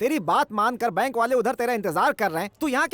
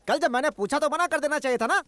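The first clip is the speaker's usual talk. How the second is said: mildly raised scolding; shouted reproach; 3 semitones higher than usual. Acted. Uncle to Veeru who invited the bankers, shouted reproach. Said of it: "चिल्ला मत, कान फट जाएंगे।".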